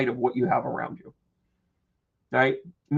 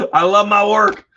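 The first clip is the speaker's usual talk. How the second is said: words squeezed out through laughter; laughing while talking; 6 semitones higher, 10 dB louder than usual. Real, not acted. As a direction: say it laughing, almost in tears.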